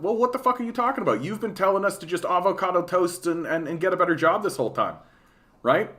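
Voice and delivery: retold comeback to conservatives, high and fast; exasperated retort. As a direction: fire back fast and fed up. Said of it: "It's like".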